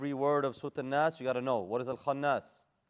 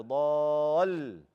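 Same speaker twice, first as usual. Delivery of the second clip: ضال with a long vowel and a pushed final ل; nabir emphasis; 4 dB louder, much slower than usual. Shown as a demonstration. Teacher demonstrates nabir, emphatic ل closing ضال. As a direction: stretch ضال, then lean into the ل. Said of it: "then do nabir".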